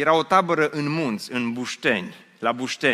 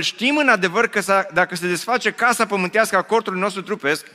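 scripture read again; 4 semitones higher than usual. Acted. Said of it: "spune Pavel".

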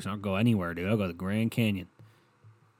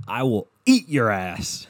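slow, lightly voiced Alex Jones growl; Alex Jones impression; 5 dB louder, slower than usual. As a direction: mimic the clip's menacing line, drawn out. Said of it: "I need that on a fucking hotkey".

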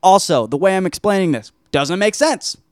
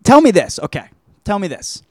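emphatic demand; 5 semitones higher than usual. Real, not acted. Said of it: "demands attention".

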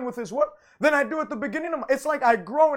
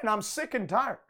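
softer, a mock sigh of "I'm sick and tired"; mock weary complaint; 2 semitones lower, 6 dB quieter than usual. Shown as a demonstration. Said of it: "Stop saying".

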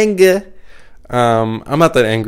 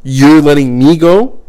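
retold anger. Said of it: "most prominent emotions I feel is like".

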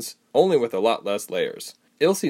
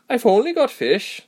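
matter-of-fact; 14 semitones higher, 5 dB louder than usual. A narrator's reading. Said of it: "like it should be obvious".

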